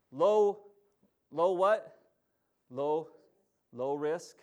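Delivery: loud prompting call to the congregation; call and response. Real, not acted. Preacher prompting the congregation, loud call. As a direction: draw the answer out of the crowd. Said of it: "what Mike said?".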